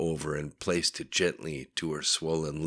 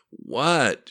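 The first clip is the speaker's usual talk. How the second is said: annoyed groan; 7 semitones higher, 6 dB louder than usual. A narrator's reading. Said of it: "she groaned, annoyed at him".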